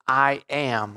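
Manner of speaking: "I am" picked out as the key words; stress on "I am". Shown as a demonstration. Preacher pointing out Jesus's words, stressing "I am". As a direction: give "I am" its emphasis. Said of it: "there's that emphasis on the words".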